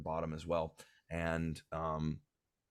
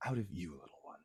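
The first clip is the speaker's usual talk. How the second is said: firm mother. Acted. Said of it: "claps a hand over his mouth".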